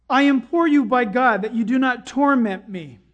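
preacher's acted cry for mercy; demon crying out. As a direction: implore forcefully, as the demon. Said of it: "this demon cries out with a loud voice".

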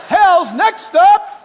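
loud, high, slow announcement; slow conductor call. Retold or imitated. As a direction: draw out each word, loud. Repeats the call, slowly.

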